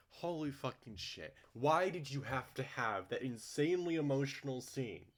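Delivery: loud, high angry ranting; shouting furious complaints. Real, not acted. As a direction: rage at the writers, full voice. Furious rant about the scene.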